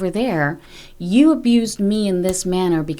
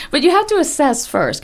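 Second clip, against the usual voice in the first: still laughing; 8 semitones higher, 3 dB louder than usual. Real, not acted. Laughing after joke.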